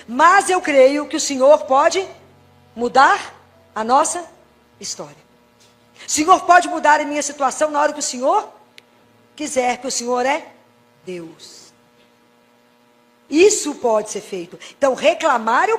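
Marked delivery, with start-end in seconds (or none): 0.1-11.7 hopeful declaration of faith. Pretend. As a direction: build up your trust as you declare it. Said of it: "Eu falo com ele".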